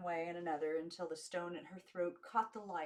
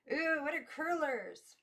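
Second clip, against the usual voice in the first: put-on high, loud, slow girlish wonder; much higher drawn-out ooh of amazement; awed girls; 10 semitones higher, 7 dB louder, slower than usual. A narrator's reading. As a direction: gasp it out like wide-eyed little girls. Backwoods girls marvel at curlers.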